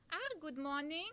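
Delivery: light high doll voice; Elsa puppet voice. Acted. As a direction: greet as a gentle doll. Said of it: "So here we have Elsa".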